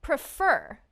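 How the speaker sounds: Prefer said pre-FER, weight on the end; stress on second syllable. Shown as a demonstration. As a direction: say Prefer with a short, weak first syllable. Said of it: "second syllable is also stressed".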